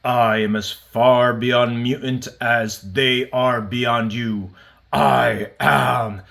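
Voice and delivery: slow, grand imitation of a villain; Apocalypse cosmic voice. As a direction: drag it out like an ancient cosmic villain. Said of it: "and he's like".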